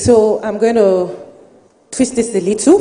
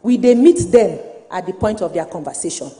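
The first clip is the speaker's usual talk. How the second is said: Nigerian Pidgin. Real, not acted. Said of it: "I'm going to speak in Pidgin".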